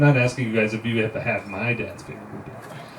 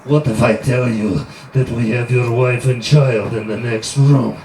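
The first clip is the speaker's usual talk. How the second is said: cool foreign spy menace; 4 dB louder than usual. Acted. Interrogator threatening family.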